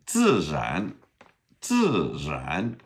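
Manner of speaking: "自然" with buzzed dz, then zh-like R; model pronunciation. Shown as a demonstration. Teacher modeling hard word for learners, deliberate "自然". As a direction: say "自然" deliberately, falling then rising tone. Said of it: "Can you say that?".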